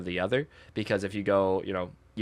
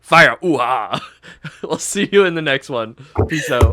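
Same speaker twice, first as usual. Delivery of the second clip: giddy sign-off; 5 semitones higher, 5 dB louder, slower than usual. Real, not acted.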